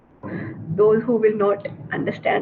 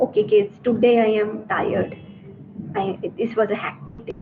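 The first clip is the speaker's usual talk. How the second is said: tired teacher; 2 semitones lower, faster than usual. Shown as a demonstration. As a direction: sound mildly worn out, trailing away. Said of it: "sometimes I'm pissed and tired".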